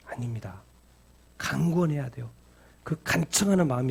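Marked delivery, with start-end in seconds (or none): 0.1-0.6 whisper. Acted. Whispered denial.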